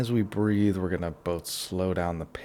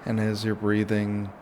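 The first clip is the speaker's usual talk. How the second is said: guided relaxation; 6 dB quieter than usual. Shown as a demonstration. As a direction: ease them through each breath, leaving long pauses. Leads a breathing relaxation.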